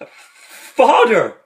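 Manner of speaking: mock anguished call; mournful cry. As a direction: cry it out in grief. A cry of grief in retelling.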